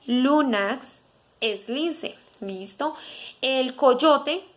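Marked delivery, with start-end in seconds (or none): 0.1-1.0 lunax repeated slowly, syllable by syllable. Shown as a demonstration. Teacher repeating lunax slowly so students copy. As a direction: drill lunax slowly for learners. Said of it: "se pronuncia".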